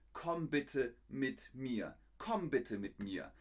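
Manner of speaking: polite, unhurried invitation; friendly request. Shown as a demonstration. Teacher shows a friendlier way to ask, polite request. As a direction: ask gently, nothing like an order. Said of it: "man möchte vielleicht sagen".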